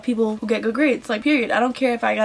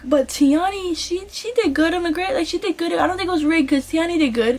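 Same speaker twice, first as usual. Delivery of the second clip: higher-pitched imitation of a nice friend; imitated well-meaning protest; being nice; 6 semitones higher than usual. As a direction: stick up for someone sweetly, pitched up. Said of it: "that was her being nice".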